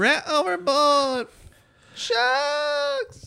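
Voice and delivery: high, slow cartoon voiceover; dramatic voiceover. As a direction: announce it like a cartoon narrator. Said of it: "Nice voiceover".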